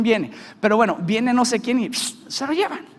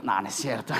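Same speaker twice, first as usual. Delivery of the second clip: laughing; 13 semitones lower, 6 dB quieter than usual. Real, not acted. Jokes about blocking her number.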